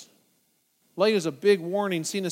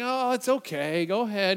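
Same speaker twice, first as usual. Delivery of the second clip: casually permissive. Retold or imitated. Christians not wanting to ruin the fun, permissive. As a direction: wave it off easily.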